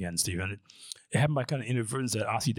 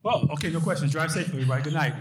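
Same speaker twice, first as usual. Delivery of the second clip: joking sign-off; 5 semitones higher, 4 dB louder, faster than usual. Real, not acted.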